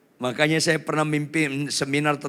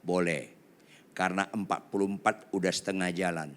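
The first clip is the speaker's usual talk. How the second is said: half-voiced, softer reply; 5 semitones lower, 6 dB quieter than usual. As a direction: answer with only half your voice. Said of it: "Saya jawab dengan setengah suara". (setengah suara)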